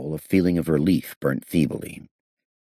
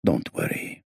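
soothing; 7 semitones lower, 4 dB quieter than usual. Acted. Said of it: "the owner said soothingly".

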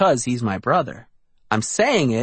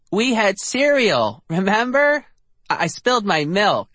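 put-on higher, eager little boy; little kid voice; 7 semitones higher than usual. A narrator's reading. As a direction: play a small boy correcting her. Narrator voices little brother Eddie.

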